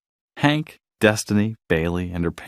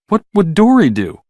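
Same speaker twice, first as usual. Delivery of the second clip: wondering aloud; 9 semitones higher, 4 dB louder than usual. Acted. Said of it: "she wondered".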